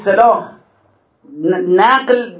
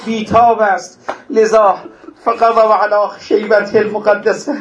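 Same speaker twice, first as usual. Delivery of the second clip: mourning recitation. Acted. Mourning recitation of Ali Akbar.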